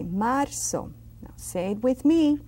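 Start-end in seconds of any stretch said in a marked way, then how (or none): 0.0-0.9 marzo with an open, long A. Shown as a demonstration. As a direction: hold the A in "marzo". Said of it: "It's a long A".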